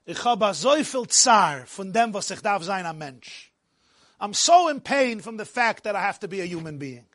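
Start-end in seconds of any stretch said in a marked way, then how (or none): 0.1-3.5 Jerusalem Yiddish lilt sinking at the end; Jerusalem melody. Retold or imitated. Yeshiva boy pours out his pain to the maggid, Jerusalem melody. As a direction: imitate the maggid's Jerusalem singsong. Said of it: "he would speak with a Yerushalayim".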